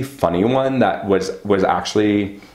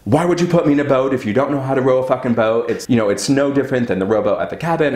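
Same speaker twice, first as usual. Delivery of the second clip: fast, higher whiny complaint; a touch higher and fast, imitating the complaining ex; mock nagging boyfriend; 4 semitones higher, faster than usual. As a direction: mimic his griping, quick and put-on. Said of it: "he starts coming at me".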